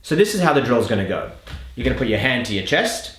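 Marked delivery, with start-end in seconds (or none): none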